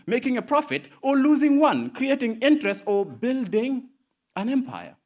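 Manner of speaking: spoken word performer building to a loud peak; spoken word poem. Acted. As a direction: perform it like a slam poem, rising in force.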